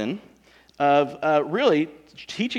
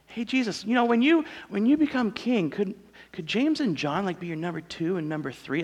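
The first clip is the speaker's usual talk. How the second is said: mother asking; 4 semitones higher than usual. Retold or imitated. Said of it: "mom goes and asks Jesus".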